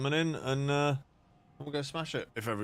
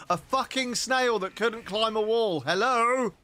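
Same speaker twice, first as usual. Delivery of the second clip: incredulous rant; 10 semitones higher, 4 dB louder than usual. Real, not acted. Complaining about the snail.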